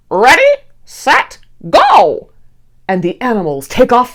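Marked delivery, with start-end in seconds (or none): 0.1-2.3 higher, louder starter's call; toucan shouting. Acted. The toucan starts the race for all animals, shouting. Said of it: "The toucan shouts".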